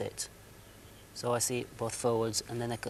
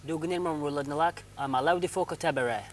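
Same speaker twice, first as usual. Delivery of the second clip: backwards talking; 3 semitones higher than usual. Acted. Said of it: "a master of backwards talking".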